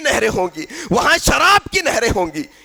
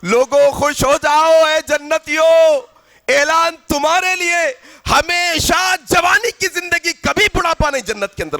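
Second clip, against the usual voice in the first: proclaiming angel, raised and sustained; calling out; 3 semitones higher than usual. Acted. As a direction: herald good news across a crowd. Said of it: "پھر پکارنے والا پکار کر کہے گا".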